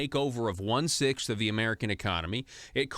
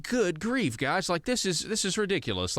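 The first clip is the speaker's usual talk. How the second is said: exasperated reaction; 7 semitones higher than usual. Retold or imitated. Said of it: "I'm just like".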